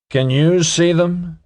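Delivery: a touch of earnest wonder; earnest question. A narrator's reading. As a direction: ask it earnestly, slowly. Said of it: "he asked Nelson earnestly".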